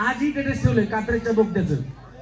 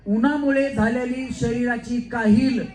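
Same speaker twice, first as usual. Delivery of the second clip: slow, formal mock-courtly line; film dialogue imitation; slower than usual. Host shows the film dialogue to a woman, slow. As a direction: lay it out slowly like a servant addressing his lord. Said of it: "Siddharth Jadhav dialogue बोलतात".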